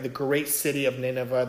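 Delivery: "great" said with weight so the bigness comes through; stress on great. Shown as a demonstration. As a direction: press on the word "great" in "The great city of Nineveh". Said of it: "Everything's emphasized".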